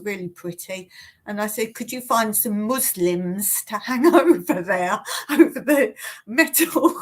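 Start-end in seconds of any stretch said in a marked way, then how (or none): 1.8-6.9 laughing retelling. Retold or imitated. Laughing retelling of own slip.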